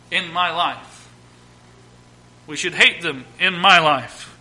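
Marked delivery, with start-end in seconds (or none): 3.4-4.3 weight on the word "my"; stress on MY. Real, not acted. Preacher owning his own sins, stress on "my". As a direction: lean on "my", pointing at oneself. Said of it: "I want to put emphasis on my life".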